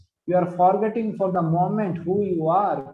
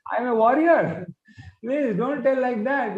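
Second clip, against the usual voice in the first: indignant protest; 5 semitones higher than usual. Acted. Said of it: "Krishna is telling, "My dear Lord".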